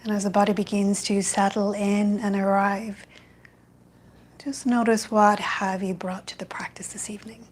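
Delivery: calm, even meditation guidance with long pauses; guided meditation. Real, not acted. Yoga teacher guiding an online evening class into loving kindness, meditative. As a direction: ease them into stillness, phrase by unhurried phrase.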